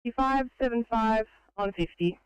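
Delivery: crackly two-way radio; tinny radio transmission; police radio. Real, not acted. Dispatch radio exchange.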